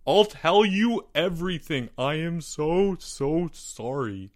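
desperate apology, high then slowing; crying out, subsiding. A narrator's reading. Albert confesses to the boys, crying out then subsiding. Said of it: "he cried out".

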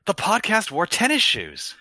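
Robbie impression. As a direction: lift it up into someone else's voice. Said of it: "say it as if you're Robbie".

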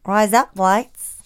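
slow, deliberate Australian accent. Shown as a demonstration. Testing a listener's accent hack, Australian accent. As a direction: try out an Australian twang slowly. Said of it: "you'll sound like an Australian".

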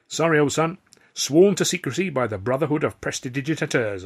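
mock-solemn refusal with a smirk. A narrator's reading. Magician keeping his trick secret, smirking. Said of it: "I smirked".

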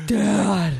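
mock dramatic son calling his father; whiny kid calling. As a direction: plead for Dad like a hurt kid. Mother voices dramatic son calling.

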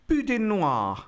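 boudin noir said like an Englishman, "boo-din nwah" flat; English accent. Shown as a demonstration. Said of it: "you're saying it like an Englishman".

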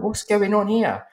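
high, slow, disbelieving; high, slow, stunned mock question; bewildered. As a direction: ask it like you can't believe your eyes. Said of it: "I'm like".

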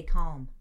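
calm said with the L sounded; American calm. Shown as a demonstration. Teaching the American calm to friend, L sounded. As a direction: pronounce calm with a clear L. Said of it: "Americans pronounce the L in calm".

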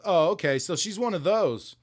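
understated mock surprise; mild surprise. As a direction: react like you've just seen something odd, lightly voiced. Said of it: "who goes".

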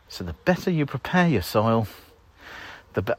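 breathless from hoeing; puffing between words; out of breath. Real, not acted. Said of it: "I'm out of breath".

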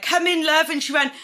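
hammed-up breezy woman calling out; woman with the needles greeting her client; Botox woman voice. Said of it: "she's like".

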